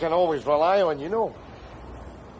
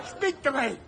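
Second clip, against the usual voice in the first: desperate urging; 8 semitones higher than usual. Acted. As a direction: shake him awake with your voice. Trying to revive rescued man.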